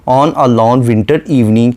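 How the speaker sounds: very slow, measured poetic reading; a lightly recited line of poetry; slow poem recitation. Shown as a demonstration. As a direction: draw out each word of the verse.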